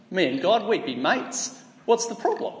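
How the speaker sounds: breezy, matey Aussie voice, God rises on a lift; mock Aussie bloke. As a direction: play a carefree Australian bloke who thinks God is his mate. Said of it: "a Crocodile Dundee kind of view".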